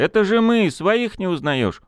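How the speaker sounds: high indignant yell; shouting. Acted. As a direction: shout at someone who should know you. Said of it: "заорал Костик".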